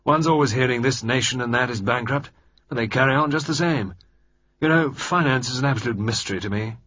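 gruff relief blurted out in a hearty rush; Sir George voice. Acted. Sir George confiding his worries to Lord Mayfield, bluff and loud.

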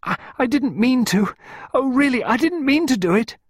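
put-on very high, loud, panicked child; frantic high-pitched protest; strangled cry. A narrator's reading. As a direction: cry it out, choked with distress. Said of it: "In a strangled voice".

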